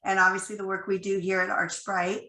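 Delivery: croaky voice from a cold; hoarse, croaky cold voice. Real, not acted. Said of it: "apologize for my croaky voice".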